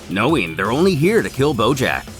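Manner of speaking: ordinary delivery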